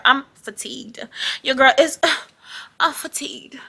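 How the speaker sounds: soft, dainty, sighing into a whisper; playing a prim, classy lady, lightly; demure classy lady. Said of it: "very cutesy, very classy, very demure".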